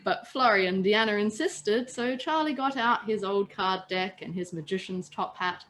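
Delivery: calm read-aloud storytelling voice; steady storyteller narration; story narration. A narrator's reading. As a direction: read it like a bedtime tale to friends. Reads story aloud to listeners.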